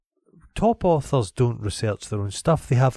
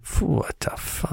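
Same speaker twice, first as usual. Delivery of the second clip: whispered, slow and airy; breathy whisper; 3 semitones higher, 5 dB quieter, slower than usual. Acted. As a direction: breathe it out, impressed. Voicing impressed Capshaw.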